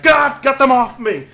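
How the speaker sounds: high-pitched gnome plea; acted cry for help under attack; frantic shout. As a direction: yell it out, high and desperate. Gnomes shooing off pecking hawks.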